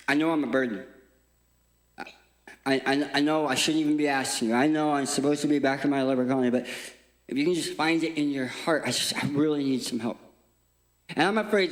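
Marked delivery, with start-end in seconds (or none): 0.1-10.2 hesitant plea. Acted. Leper hesitantly begs for help.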